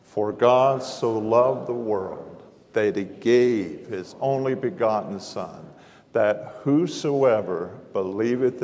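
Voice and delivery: slow, measured scripture recitation; slow recitation together. Shown as a demonstration. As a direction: recite it slowly, in unison with the room. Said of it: "say it with me".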